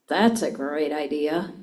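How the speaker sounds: low, slow, sarcastic "That's a great idea.". Shown as a demonstration. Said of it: "Or I can say".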